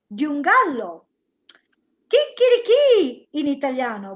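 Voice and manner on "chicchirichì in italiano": rooster crow. Shown as a demonstration. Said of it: "What's the sound of a rooster".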